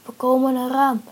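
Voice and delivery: loud, carrying announcement; calling out. A narrator's reading. Rescuers to the trapped friends, calling out. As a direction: call ahead that help is coming. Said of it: "werd er geroepen".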